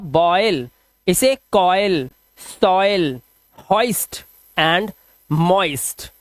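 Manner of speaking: "बॉयल, कॉयल, सॉयल" as careful, separated model words; pronunciation demo. Shown as a demonstration. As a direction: stretch the oy glide in "कॉयल" and "मॉइस्ट". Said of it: "क्या पढ़ेंगे इसे आप".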